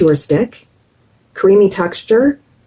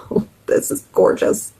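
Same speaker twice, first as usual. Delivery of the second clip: admiring whisper; 4 dB quieter than usual. Real, not acted. Admiring blush on face.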